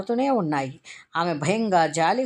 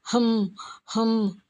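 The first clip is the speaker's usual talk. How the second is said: stifled sob hums; 5 semitones higher, much slower than usual. A narrator's reading. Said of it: "మళ్ళీ అదే శబ్దం".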